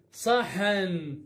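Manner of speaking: صحن drawn out very slowly as "saa-hann"; slow teacher's reading of صحن; slow blending. Shown as a demonstration. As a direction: blend the sounds of صحن, stretching each syllable. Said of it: "بهذا الشكل اللفظه".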